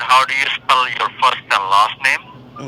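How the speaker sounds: slowed-down repeated question. Real, not acted. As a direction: spell out the question slowly. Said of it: "Uh, I said".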